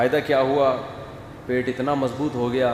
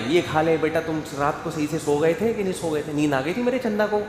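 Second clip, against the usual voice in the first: doting parent; faster than usual. Retold or imitated. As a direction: coax the child like a fussing mother. Doting parent voiced by preacher.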